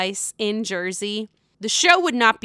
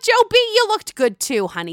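flirty; 11 semitones higher, 5 dB louder than usual. Real, not acted. Flirting with Joe on screen.

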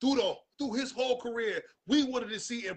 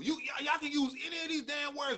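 exasperated shout; 6 semitones higher than usual. Real, not acted. Ranting at sports reporters, exasperated shout. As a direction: yell it out in frustration.

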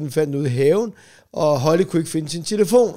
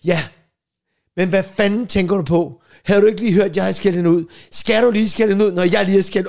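louder, exasperated wife scolding; mock angry wife; 3 semitones higher, 3 dB louder than usual. Wife scolding husband for double telling-off, exasperated. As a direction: scold him in disbelief. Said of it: "hun bare siger".

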